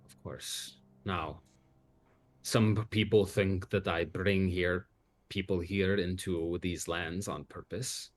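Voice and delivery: Count Strahd. Acted. GM continues as the count.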